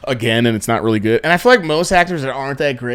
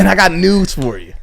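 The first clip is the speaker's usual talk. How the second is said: bad acting; 7 semitones higher than usual. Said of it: "his tone, how he says it".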